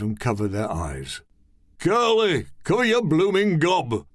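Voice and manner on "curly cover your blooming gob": scream. Acted. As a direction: bark the order at him. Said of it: "Mister Kane screamed".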